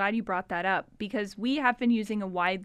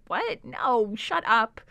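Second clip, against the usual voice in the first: incredulous; slower than usual. Retold or imitated. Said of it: "he's just incredulous".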